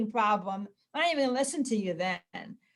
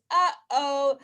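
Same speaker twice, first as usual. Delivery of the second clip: two-note, louder singsong; simple parental uh-oh; 2 semitones higher, 5 dB louder than usual. Shown as a demonstration. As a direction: call it out lightly to a small child. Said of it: "a simple way to say it is".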